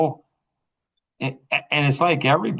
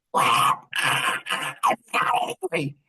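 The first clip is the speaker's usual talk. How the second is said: sulky granddaughter; much slower than usual. Retold or imitated. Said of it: "And she's like".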